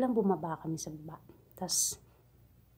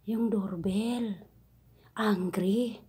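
imitating madam; much slower than usual. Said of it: "Bigla niyang sinabi".

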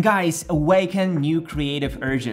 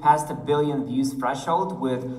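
echo effect. Shown as a demonstration. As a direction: voice through a long pipe. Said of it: "sounds like I'm talking through a long pipe".

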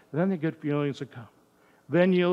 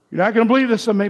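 playful exclamation; 7 semitones higher, 12 dB louder, much faster than usual. Real, not acted. Confiding a guilty secret to audience.

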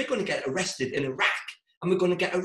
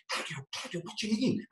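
hushed argument; 3 semitones higher, 5 dB quieter than usual. Retold or imitated. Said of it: "trying to keep the voice down".

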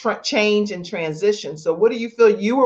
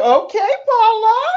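mock sarcastic quote. Mock reply to book cover.

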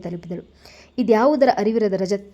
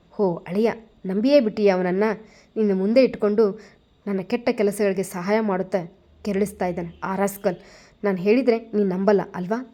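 angry. Acted. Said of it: "ರೋಷದಿಂದ Rajashekhar ನುಡಿದಾಗ".

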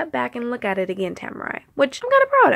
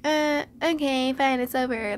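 dismissive giving up; 3 semitones higher than usual. Retold or imitated. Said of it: "I don't like to just".

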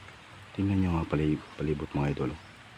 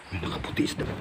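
whispering; 3 dB quieter, faster than usual. Real, not acted. Spotting figure in white.

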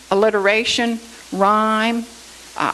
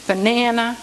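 "banana" said apart, middle "na" accented; stress on second syllable. Shown as a demonstration. Teacher repeating the example word, stress on second syllable. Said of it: "the accent is on the na".

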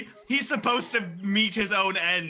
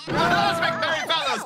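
hammy stage actor; 9 semitones higher, 3 dB louder than usual. Retold or imitated. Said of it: "the thespian voice package".

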